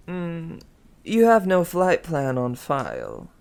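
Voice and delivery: put-on French accent. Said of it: "He, he had a French accent".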